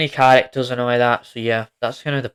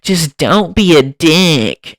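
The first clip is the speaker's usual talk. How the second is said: mock movie line; 4 semitones higher, 7 dB louder, slower than usual. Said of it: "And he's like".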